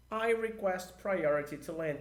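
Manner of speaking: slow English radio phrase; slow model sentence. Shown as a demonstration. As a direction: say it slowly as an example. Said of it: "Fica assim, ó".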